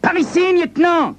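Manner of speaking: high call down the corridor; cop calling out. Acted. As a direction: call out to the lieutenant. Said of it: "crie un flic".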